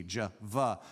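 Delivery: Jehovah with J and V sounds; English J and V. Shown as a demonstration. Preacher illustrating English letters, Jehovah with J and V. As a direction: stress the J and V in Jehovah, juh-vah. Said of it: "J and V".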